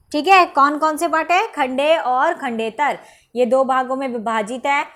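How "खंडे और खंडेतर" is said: खंडे और खंडेतर spelled out slowly, each word weighted; teacher stresses the two parts for students; slow emphatic answer. Shown as a demonstration. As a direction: drill the two terms slowly for the class. Teacher repeats answer for drilling.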